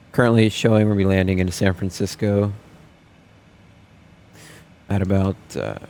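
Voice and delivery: captain speaking over the PA; formal cabin address from the flight deck; airline pilot announcement. Pretend.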